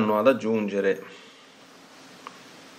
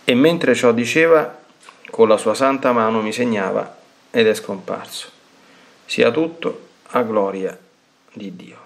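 devotional reading; 3 semitones higher than usual. Acted. Priest reading the diary to the faithful, solemn and measured. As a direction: read each line reverently, like a prayer. Reads aloud a mystic's diary.

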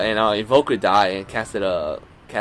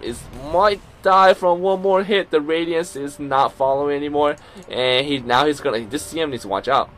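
play-by-play; 3 dB louder than usual. Acted. Live play-by-play of the match.

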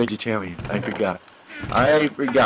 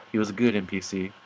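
low, halting solemn tribute; low and subdued, pausing as at a graveside; mock eulogy; 7 semitones lower, 3 dB quieter than usual. Player honoring the NPC he killed, mock eulogy.

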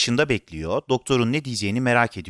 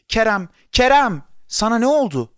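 alarmed scream; 9 semitones higher, 5 dB louder than usual. A narrator's reading. Father seeing his son's state, horrified scream. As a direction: cry out in shock at your child. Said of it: "müthiş bir çığlık attı".

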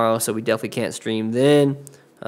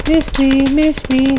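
high taunting sing-song; dunk tank heckler; 5 dB louder, slower than usual. Pretend. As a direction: tease them from the dunk tank. Taunting enemy in game.

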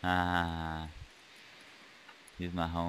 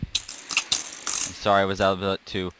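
sarcastic taunt. Acted. Mocking opponent after killing him.

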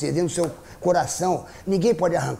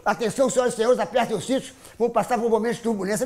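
pilot announcement; 4 semitones higher than usual. Retold or imitated. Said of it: "entrou aquela voz, aquele mentiroso".

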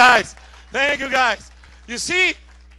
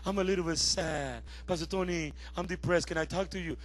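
depressed caller; 4 semitones lower than usual. Acted. Depressed people calling pastor, mildly mopey low plea. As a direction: lightly imitate a mopey caller. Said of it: "when they feel depressed".

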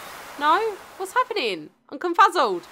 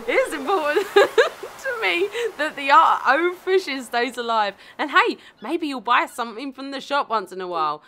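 lightly voiced pirate, giggling through it; a slipping pirate impression. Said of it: "pirate voice for Mister Willy now".

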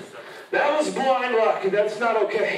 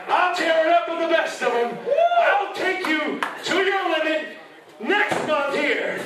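raised fired-up promo yell; shouting; 2 semitones higher than usual. Real, not acted. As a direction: shout it at your rival. Heated wrestling promo challenge.

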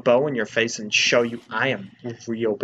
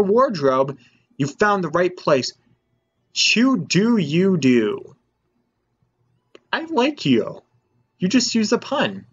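lightly voiced shopkeeper; 6 semitones higher, 4 dB louder than usual. Voices dye shop keeper.

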